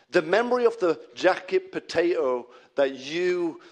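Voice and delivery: accidental touch of Yorkshire; Yorkshire accent. Real, not acted. Preacher recalling last week's jacket potato, slipping into Yorkshire accent. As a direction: let a Yorkshire accent slip out. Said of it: "came out in a Yorkshire accent".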